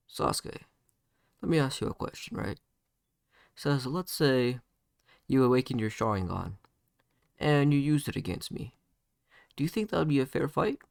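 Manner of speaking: calm, measured questioning. Acted. Naruto putting a question to Sasuke, calmly. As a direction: pose it evenly, without shouting. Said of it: "saying this in a calm voice".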